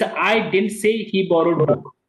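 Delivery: slow, with I given the most weight; stress on I. Shown as a demonstration. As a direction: lean on I and read the line slowly. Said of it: "you'll be stressing on the".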